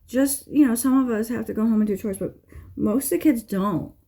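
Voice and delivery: mild mock teen whine; mimicking daughter. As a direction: lightly voice the daughter's excuse. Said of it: "she's like".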